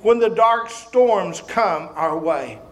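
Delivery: slow, low prayer voice. Acted. Closing prayer.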